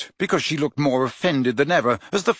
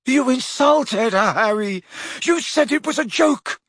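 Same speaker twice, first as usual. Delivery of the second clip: shouting; 11 semitones higher than usual. A narrator's reading. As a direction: yell it back, outraged. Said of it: "shouted Ron".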